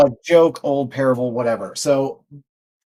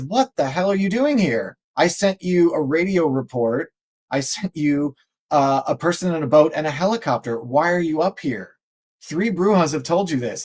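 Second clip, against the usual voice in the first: exasperated God; 3 semitones higher than usual. Retold or imitated. God scolding in joke.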